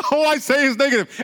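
hammed-up despair at your own gossip; mock self-reproach. Churchgoer outside, wailing in hammed-up guilt. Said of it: "you're gonna go outside".

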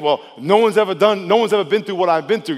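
lightly acted protest of someone feeling singled out. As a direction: object as the hard-done-by sufferer. Voices a self-pitying doubter's objection.

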